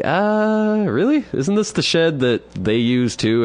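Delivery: high, slow disbelieving question; incredulous. Retold or imitated. To the old man about his pee jar, high and incredulous. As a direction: sound like you can't believe what he's asking.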